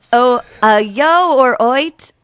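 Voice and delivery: put-on slow, amateur British accent; regional British accent. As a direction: try the dialect again. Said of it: "American girl doing real bad accents".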